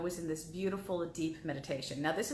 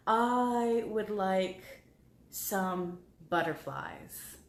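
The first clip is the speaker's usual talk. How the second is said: plant's gentle voice; much slower than usual. Pretend. The flowering plant speaks.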